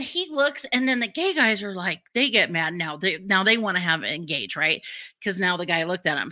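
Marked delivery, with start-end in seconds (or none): none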